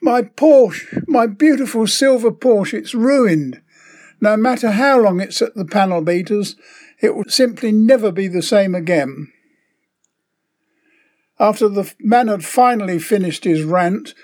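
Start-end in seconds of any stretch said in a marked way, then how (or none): 0.0-9.3 higher-pitched, hammed-up wail of distress; mock hysteria. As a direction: play a distraught man without really screaming. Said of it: "the man starts screaming hysterically".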